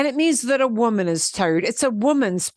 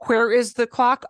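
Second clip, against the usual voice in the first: whispered question; 3 semitones higher than usual. Shown as a demonstration. Teacher models a question.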